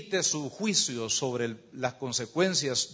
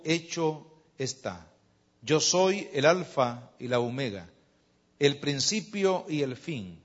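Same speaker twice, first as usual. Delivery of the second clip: measured Bible reading with pauses between phrases; scripture reading. Acted. Preacher reading Revelation to the congregation, measured scripture reading. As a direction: read the passage out solemnly, phrase by phrase.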